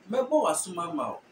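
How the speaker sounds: "Mebo wa sum ama o" as Twi says it; Twi accent. Shown as a demonstration. Teacher giving a Twi example, Twi accent. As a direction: give the Twi phrase, falling at the end. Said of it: "Twi will say".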